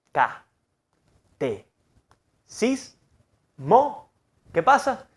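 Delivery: ca, te, sis, mo broken into separate syllables with pauses; flat syllables. Shown as a demonstration. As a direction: spell out catecismo syllable by syllable. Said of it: "Es una tonalidad plana".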